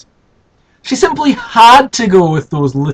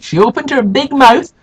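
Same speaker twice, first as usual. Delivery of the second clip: dramatic narration; 7 semitones higher, 4 dB louder than usual. A narrator's reading. Narrating scream.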